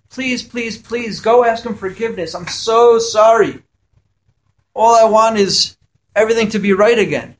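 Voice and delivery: high, pleading please, please, please; pleading friend. Retold or imitated. Friend begs forgiveness, retold.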